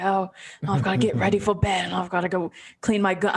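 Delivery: mock New Zealand accent, quick; lightly put-on Kiwi accent. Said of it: "that New Zealand accent".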